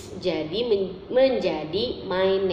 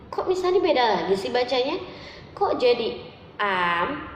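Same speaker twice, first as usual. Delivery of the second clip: put-on higher, eager child asking the teacher; puzzled pupil; 4 semitones higher than usual. Teacher voicing a pupil who asks Miss Hani why, higher and eager. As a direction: play a confused kid questioning Miss Hani.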